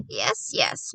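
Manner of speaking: high, hurried-sounding brush-off; impatient. A narrator's reading. Grandmother waving off the boy's point, impatient. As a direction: brush it aside with a touch of impatience. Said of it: "my grandmother said impatiently".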